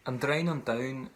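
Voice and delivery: "Drown on Down" said in the speaker's own Irish; Irish pronunciation. Shown as a demonstration. Teacher giving her own pronunciation of the bush's name. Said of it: "the way that I'd say it in my Irish".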